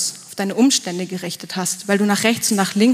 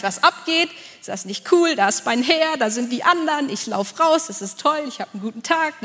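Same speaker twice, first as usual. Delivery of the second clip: bubbly, amazed, tumbling quickly from thought to thought; giddy Peter on the water; 3 semitones higher than usual. Acted. Preacher voicing Peter delighted to be walking on the waves, giddy and amazed.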